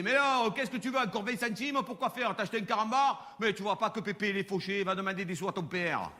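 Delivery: fond imitation of a skint old grandfather. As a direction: play the stingy, grumbling grandpa. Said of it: "il parlait comme ça".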